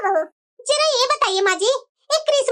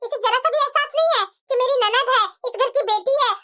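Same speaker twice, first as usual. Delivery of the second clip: lightly voiced complaining mother-in-law; 4 semitones lower than usual.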